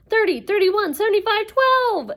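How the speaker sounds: high, loud, climbing wail. Acted. Inger repeating the numbers to Percy, wailing. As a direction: wail it, rising to a peak. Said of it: "Inger ye-, wailed".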